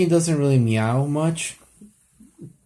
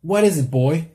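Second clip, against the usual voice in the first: lightly raised, calling to a dog; hint of Lassie owner; 5 semitones higher than usual. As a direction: ask the dog like in an old movie. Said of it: "just being like".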